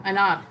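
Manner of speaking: "an hour" with a silent h, said "an our"; right pronunciation. Shown as a demonstration. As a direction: drop the h: "an hour" sounds like "an our". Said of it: "We don't say har".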